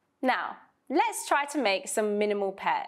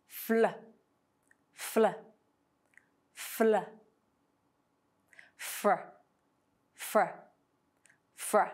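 faster blends; slower than usual. Shown as a demonstration. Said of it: "say these two consonant blends faster".

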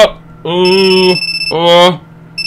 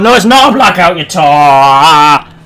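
panicked yell; 6 dB louder, slower than usual. Real, not acted. Gamer yelling at a co-player during a scare. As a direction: bellow it in a panic.

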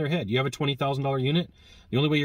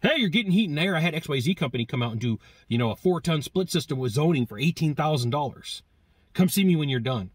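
imitating a bragging neighbor; 2 semitones higher than usual. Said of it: "someone would come and knock on the door".

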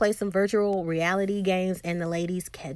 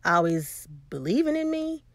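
retold sarcasm; 4 semitones lower than usual. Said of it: "Issa says back sarcastically".

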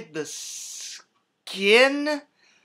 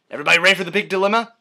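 rapid announcer tease; 3 semitones higher, 6 dB louder, much faster than usual. Real, not acted.

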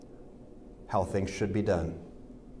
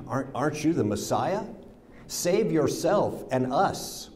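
insulting; 3 semitones higher than usual. Acted. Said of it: "hurled insults at him".

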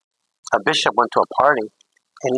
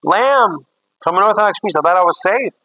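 mock crying; 8 semitones higher, 4 dB louder than usual. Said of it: "I'm crying and eating".

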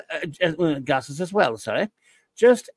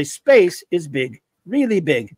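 Douglas Adams quote; 4 dB louder than usual. Retold or imitated. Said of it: "quote Douglas Adams and say".

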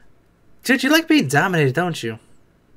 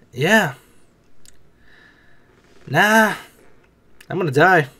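ordinary talk

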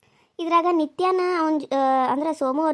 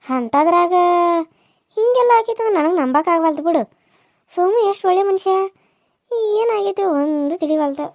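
puzzled village elder; 4 semitones higher, 5 dB louder than usual. Acted. Elder woman wonders why Raji marries Somu, higher and bewildered. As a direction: marvel that the couple could split.

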